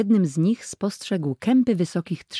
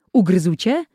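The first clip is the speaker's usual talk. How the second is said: worried call; 3 semitones higher, 5 dB louder than usual. Acted. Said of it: "zawołał zaniepokojony".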